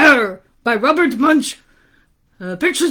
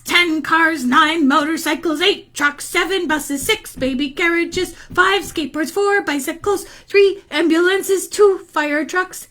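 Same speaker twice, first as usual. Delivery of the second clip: put-on higher, even list-reading kid voice; boy counting off; 4 semitones higher than usual. Boy surveying traffic mess, high sing-out count. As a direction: tick off each item in a high voice.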